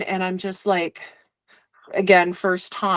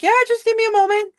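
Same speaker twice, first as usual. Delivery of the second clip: high, rushed, rattled reply; mock-shaken squeak, rushed out; much faster than usual. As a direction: play it barely holding together. Retold shaken reply after gasping.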